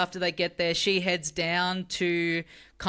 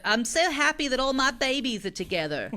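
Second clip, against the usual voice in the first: gushing mom; 6 semitones higher than usual. Retold or imitated. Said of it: "the mom is like".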